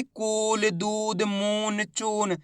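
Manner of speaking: दूध, मून, चून with the ऊ stretched long; long vowel drawn out. Shown as a demonstration. Teacher showing pupils the long ऊ vowel. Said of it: "उच्चारण खींच के हो रहा है".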